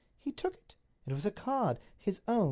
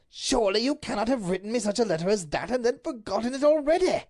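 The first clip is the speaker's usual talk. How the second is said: heated exchange; 9 semitones higher, 7 dB louder than usual. Acted. Quarrel over the letter.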